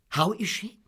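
high-pitched, demanding question; imperious aunt's inquiry; abrupt Miss Betsy. Acted. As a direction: demand news of the patient.

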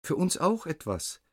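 high buzzing insect plea; buzzing fly voice. A narrator's reading. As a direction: squeak it like tiny flies. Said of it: "eigenartiges Summen".

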